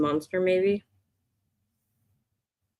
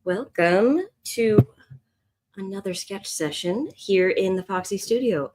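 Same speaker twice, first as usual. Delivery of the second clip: lightly put-on public radio host voice; a hint of a measured radio announcer; NPR voice; 2 semitones higher than usual. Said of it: "I'm using an N P R voice".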